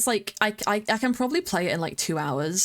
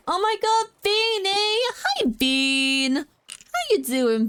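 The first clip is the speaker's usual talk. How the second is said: high, excited squeal; excited greeting; 12 semitones higher, slower than usual. Real, not acted. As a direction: greet a friend with delight. Greeting a raiding streamer.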